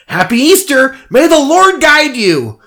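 very high, sing-song bunny voice, slow on the blessing; sugary mascot greeting; chirpy Easter Bunny. Acted. Easter Bunny greeting the drunk man, very high and chirpy.

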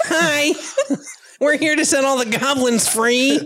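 high, laughing dragon greeting; a hint of a friendly dragon.

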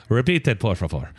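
teacher's Spanish with a slight Irish lilt; accidentally Irish-sounding Spanish. Retold or imitated. Professor telling language lab to repeat, faintly Irish-sounding Spanish. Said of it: "You sounded Irish".

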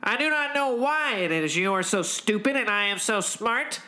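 pompous commander pronouncement; air of authority. Acted. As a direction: state it as the unquestioned authority aboard. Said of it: "air of authority that only I possess".

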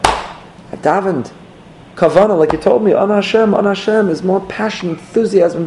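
high, pleading complaint to the Rebbe; frustrated chassid. Retold or imitated. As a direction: whine it up high, bewildered.

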